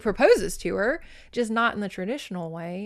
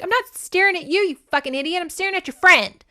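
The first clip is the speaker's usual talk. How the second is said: high, loud, exasperated comeback; mock furious retort; 10 semitones higher, 7 dB louder, faster than usual. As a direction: set the deluded suitor straight, hammed-up. Retold girl snaps at suitor.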